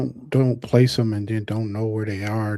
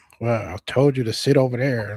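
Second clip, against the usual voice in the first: mocking snippy voice with attitude. Retelling how staff at the DMV talk: imitating a clerk with attitude. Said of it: "And they be like".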